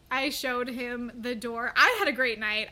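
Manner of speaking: ordinary talk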